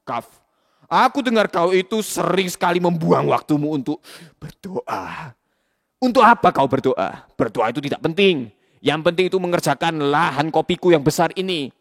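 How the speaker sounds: gruff boss scolding his worker; stern boss. Acted. Boss character scolding Kaf.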